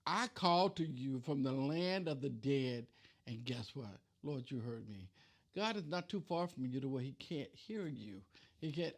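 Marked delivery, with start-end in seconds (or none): 0.1-5.1 slow, hushed reading. Shown as a demonstration. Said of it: "rereads verse slowly, softly".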